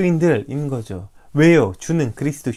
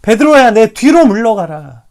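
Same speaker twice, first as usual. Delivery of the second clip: stern rebuke; 6 semitones higher, 10 dB louder than usual. Retold or imitated. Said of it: "이렇게 말하고 있는 것이죠".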